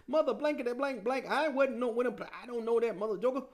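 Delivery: hammed-up cussing denial; mock cussing. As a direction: rattle off censored swearing in high indignation. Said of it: "Peter started cussing".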